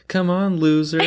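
high-pitched taunting imitation; mock jeering. Imitating the co-host pressuring her to perform, jeering. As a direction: goad like a mocking crowd.

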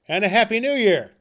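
loud, high, cheery farewell; cheerful. Acted. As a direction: sing out the good wishes. Nephew's cheerful parting.

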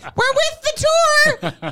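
sing-song guide in a mock Italian accent; bad Italian accent. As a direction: stretch it out high like a hammed-up Italian guide. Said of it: "it wasn't a great accent".

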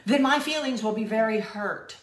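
high, loud, prissy complaining; hammed-up needy hyena; whiny hyena voice. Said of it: "a hyena comes up to it and is like".

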